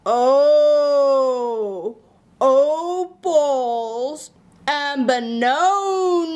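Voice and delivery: opals and bononos with round o; slow, every vowel turned to o; vowel swap demo. Shown as a demonstration. Teacher showing kids the O swap. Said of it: "And then we have".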